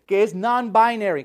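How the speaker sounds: hammed-up crying mom wailing; sarcastic impression of a distraught mother; mocking a weeping mother. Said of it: "las madres que veo llorando".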